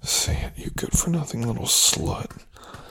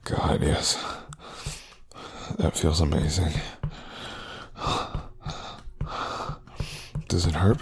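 whisper. Acted. Whispered taunting of partner.

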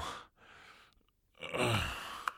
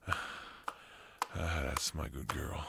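whisper; 5 dB quieter, much slower than usual. Acted. Praising his partner intimately.

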